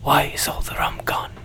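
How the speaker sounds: put-on whispered drunken pirate line; Jack Sparrow whisper. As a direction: breathe it like a tipsy pirate. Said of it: "That's as good as it gets".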